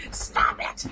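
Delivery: whispered mock telling-off. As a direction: hush the words out. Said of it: "I can't go out there and say".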